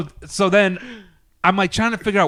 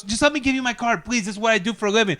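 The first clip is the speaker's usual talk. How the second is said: imitated pleading woman; 5 semitones higher, 3 dB quieter, faster than usual. Acts out woman pleading with him.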